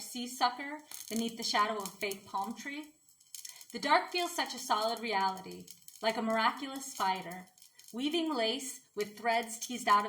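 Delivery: measured, even poetry recital; poem reading. Acted. Sharing their own poem with listeners, measured poem reading. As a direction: read your own poem in steady, lightly formal phrases.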